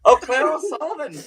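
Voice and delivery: lightly lilting mock brogue; Irish accent. Performer returning to the Irish bit, mock brogue on the name. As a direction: sing out the name in stage Irish. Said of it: "yeah, Irish".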